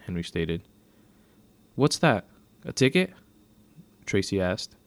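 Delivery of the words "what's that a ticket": high, louder incredulous questions; alarmed questioning. A narrator's reading. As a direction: ask with rising disbelief. Teen learns of a citation.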